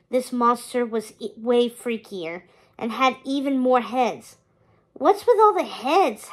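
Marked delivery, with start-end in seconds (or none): 4.9-6.3 hissed. A narrator's reading. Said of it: "Hector hissed".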